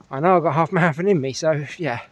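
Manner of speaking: panting after a hill run; out of breath. Real, not acted. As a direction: talk while catching your breath. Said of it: "that's why I'm a little bit out of breath".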